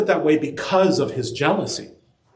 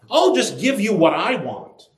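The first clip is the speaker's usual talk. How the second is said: higher, dismissive; selfish spouse; 5 semitones higher than usual. Retold or imitated. Preacher voices a selfish spouse brushing off their partner. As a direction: toss it off like a careless spouse.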